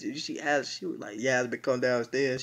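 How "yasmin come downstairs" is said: loud call down the stairs. Retold or imitated. Margot calling Yasmin downstairs, loud casual call.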